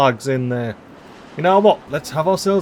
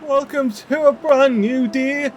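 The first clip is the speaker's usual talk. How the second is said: much higher sing-song "morning, beavers", slow welcome; cheery morning greeting; 10 semitones higher, much slower than usual. Acted.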